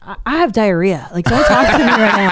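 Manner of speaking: laughing through the excuse. Retold or imitated. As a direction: giggle while brushing him off. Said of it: "And I was like".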